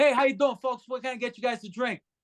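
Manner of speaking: put-on New York accent. Greeting an eight-top table and asking for drink orders: put-on new york accent. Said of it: "I'll put on a New York accent".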